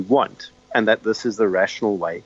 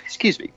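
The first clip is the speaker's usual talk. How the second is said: cough; faster than usual. Real, not acted. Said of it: "the hay fever is starting".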